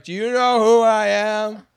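lightly voiced arrogant host; a hint of a pompous star; haughty celebrity. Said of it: "You think he's ever like".

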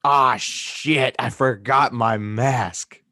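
put-on loud, drawn-out Long Island accent; hardcore Long Island accent. Imitating a woman who forgot her mask, hardcore Long Island accent. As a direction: lay the Long Island accent on thick and slow. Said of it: "It was, like, hardcore".

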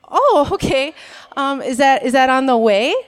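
bright, overly polite question; sweetly hide the annoyance; sugary Minnesota nice; polite passive aggressive. Retold or imitated. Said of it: "That was code for".

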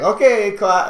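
a hint of a teacher addressing the class; calculus teacher. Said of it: "I don't wanna do the accent".

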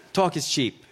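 put-on light Brooklyn accent; mild mock Brooklyn voice. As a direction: toss it off with a touch of Brooklyn. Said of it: "even better in a Brooklyn accent".

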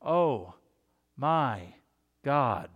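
slow, word by word, earnest; Oh, my, God drawn apart in sincere prayer; heartfelt prayer. Shown as a demonstration. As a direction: lean into each word like a real prayer. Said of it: "in a heartfelt way, the right way".

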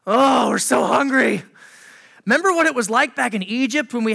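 mock-whiny crowd of complainers; whiny complaining Israelites. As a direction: whine like hungry grumblers.

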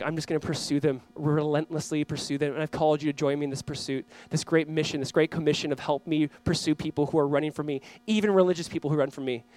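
low, soft, steady determination; hushed, measured voice of God; quiet resolve. Acted. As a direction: say it gently but without wavering. Voices God's steady, relentless resolve.

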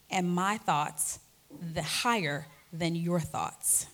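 slow, measured Bible reading; solemn, unhurried recitation of scripture. Acted. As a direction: read the verse deliberately, word by word. Reads scripture slowly.

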